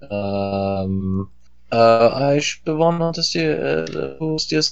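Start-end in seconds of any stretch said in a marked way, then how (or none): 1.7-4.7 choppy broken-up audio; bad connection. Real, not acted. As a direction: voice cutting out on a call. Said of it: "you're breaking up".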